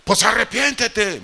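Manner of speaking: slow, high, very loud command; God shouting. Retold or imitated. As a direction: thunder the single word down at him. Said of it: "me gritó bien fuerte".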